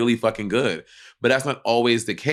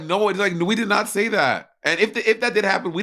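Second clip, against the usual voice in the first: mock defensive judges; 7 semitones higher than usual. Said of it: "And they're like".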